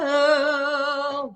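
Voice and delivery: loud sustained "oh"; indignant angry oh. Shown as a demonstration. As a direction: let hurt anger out on a long vowel. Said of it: "angry and indignant".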